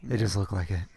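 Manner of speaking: hushed secretive whisper. Pretend. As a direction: drop to a breathy whisper. Spooky aside, answering whisper.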